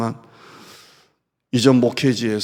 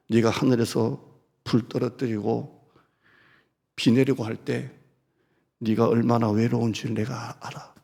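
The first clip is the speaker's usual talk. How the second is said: tender comfort. Acted. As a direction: comfort him like a loving father. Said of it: "하나님은 그렇게 말했어요".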